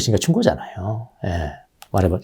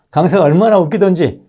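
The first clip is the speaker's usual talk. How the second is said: laughing retell; 6 semitones higher, 3 dB louder than usual. Retold or imitated. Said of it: "이래버립니다".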